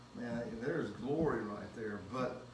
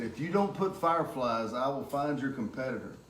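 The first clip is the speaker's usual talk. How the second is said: retold threat, a touch louder and emphatic; mock firm ultimatum; 5 dB louder than usual. Customer retelling his argument with a florist, mock firm ultimatum.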